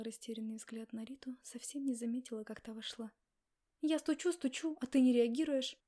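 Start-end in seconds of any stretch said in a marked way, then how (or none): 3.8-5.8 exasperated knocking friend; louder, higher complaint. Acted. Friend calling out to a distracted colleague, loud complaint. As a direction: call out the grievance, raised.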